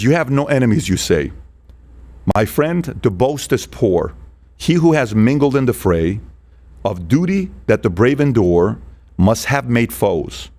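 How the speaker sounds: slow, measured recitation of verse; measured verse reading; poem reading. Shown as a demonstration. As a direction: read it like a poem, letting lines land. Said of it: "I'll read this".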